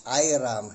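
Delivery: "Iram" with no H sound at the start; said without H. Shown as a demonstration. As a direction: say "Iram" as eye-ram, silent H. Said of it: "Hiram na walang H".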